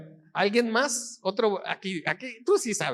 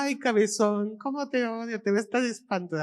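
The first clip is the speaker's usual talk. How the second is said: read the other way, lovingly; 3 semitones higher than usual. Shown as a demonstration. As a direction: turn the insult into an endearment. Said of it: "si lo lees de otra manera". (lectura cariñosa, más suave)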